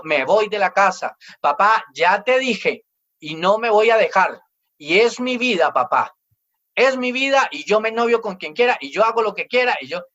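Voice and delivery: mock child giving dad orders; lightly acted stubborn son, firm and insistent; bossy defiant child. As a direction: lay down the law to dad, half-acted. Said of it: "dándole órdenes a su papá".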